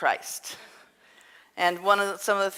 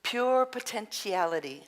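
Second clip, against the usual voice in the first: light imitation of Deepak Chopra's Indian accent; a fond, lightly done Indian accent like Deepak Chopra; a hint of an Indian accent, imitating Deepak Chopra; 4 semitones higher than usual. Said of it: "in his wonderful accent?".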